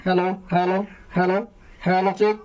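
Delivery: dry amplified mic check; mic with no echo. Shown as a demonstration. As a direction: clean mic sound without reverb. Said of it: "এখন কোনো ইকো নেই".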